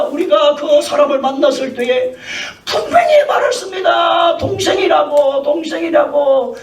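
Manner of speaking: earnest mock defense; pleading servants. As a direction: stress that they were told sister. Servants explain to king.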